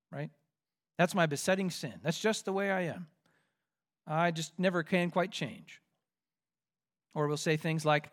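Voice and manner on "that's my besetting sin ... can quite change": softly voiced mock resignation; understated, giving up on yourself; resigned. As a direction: excuse yourself quietly, as if nothing will change. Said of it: "why do we resign with thoughts".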